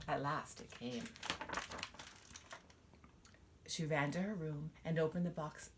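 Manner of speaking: lively storybook reading; reading to children. Acted. Mother reading a picture book to her child, expressive storytelling. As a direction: read it out to little ones, full of wonder.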